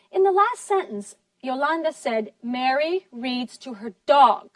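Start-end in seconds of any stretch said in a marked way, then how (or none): 2.4-4.5 heavy final stress on "dog". Retold or imitated. Teacher quotes Yolanda disagreeing, strong stress on "dog". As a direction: hit the word "dog" hardest. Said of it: "put a lot of stress on the word dog".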